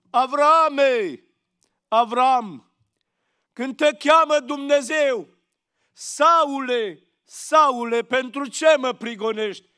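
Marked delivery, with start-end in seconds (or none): 0.1-2.7 calling the name out loud. Acted. God calling out to Abraham, loud summoning call. 5.9-9.7 louder, solemn calling of the name. Acted. Christ calling to Saul who persecutes him, loud solemn rebuke.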